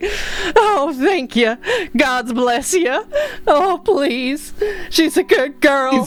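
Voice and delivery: play-acted sobbing through the words, very high pitch. Narrating a man sobbing into the listener's armor, sobbing. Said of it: "sobbing into your armor".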